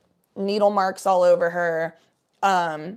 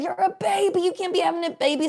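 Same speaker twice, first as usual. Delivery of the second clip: high-pitched mock scolding; mocking high voice, quoting a mother; mimicking the sister; 10 semitones higher than usual. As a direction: imitate her in a raised, put-on voice. Mimics the sister's quoted words.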